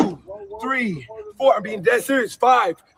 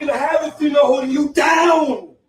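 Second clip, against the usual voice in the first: angry shout; 2 semitones higher, 3 dB louder than usual. Real, not acted. Altercation on the bus.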